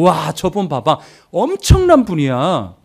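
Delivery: acted awe, stretching the praise; drawn-out mock amazement; admiring crowd. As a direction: marvel like an onlooker in the crowd. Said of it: "그러면서 막 환호를 부르면서".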